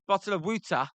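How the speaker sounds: Philly accent, "water" said as "wooder"; mild Philly accent demo. Shown as a demonstration. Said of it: "That's how we say it in Philly".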